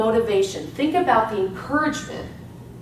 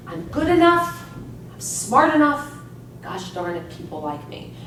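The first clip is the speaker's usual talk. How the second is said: Stuart Smalley impression. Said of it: "Stuart Smalley".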